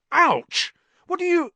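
high, loud yelp of protest; pained outcry. A narrator's reading. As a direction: cry out, startled by a sudden knock. Ron is hit with shears.

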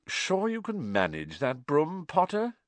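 slow, sneering high drawl; cold drawl. Acted. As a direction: stretch it out with contempt. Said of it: "said a cold, drawling voice".

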